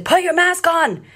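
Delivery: high-pitched, drawn-out mock yell; imitated yell. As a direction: imitate a stranger yelling, words stretched out. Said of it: "she yelled at me and said".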